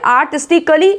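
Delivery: आर्टिस्टिकली ending in two syllables, "kuh-lee"; wrong pronunciation demo. Shown as a demonstration. Teacher warning learners off this form, mispronounced. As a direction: put a vowel between k and l in आर्टिस्टिकली. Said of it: "नहीं बोलेंगे".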